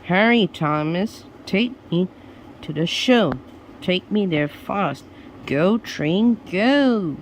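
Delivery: a judge late for the show, pressing; hurried judge. Acted. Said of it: "the judge urging Thomas".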